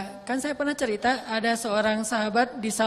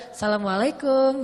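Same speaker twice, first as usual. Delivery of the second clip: "Assalamualaikum" with a teasing, flirtatious lilt; flirty greeting.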